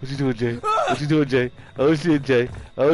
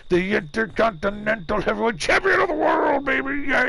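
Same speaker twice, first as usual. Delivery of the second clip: wrestling announcer; 3 semitones higher than usual. Pretend. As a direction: hype it like a ring announcer. Mimics wrestling announcer's champion call.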